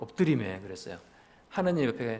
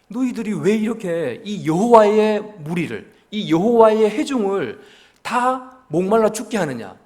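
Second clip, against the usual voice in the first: higher, louder mock accusation; imitating an angry crowd; 6 semitones higher, 8 dB louder than usual. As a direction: throw the crowd's indignant charge at the leaders. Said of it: "그럴싸한 정당한 명분을 말하는 것 같아요".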